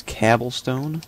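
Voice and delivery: "cobblestone" said as "cabblestone"; joke mispronunciation. Shown as a demonstration. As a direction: say "cobblestone" with a flat A, as in cab. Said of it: "That's how you say it".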